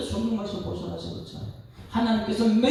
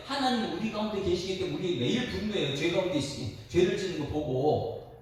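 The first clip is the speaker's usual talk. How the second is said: normal talking voice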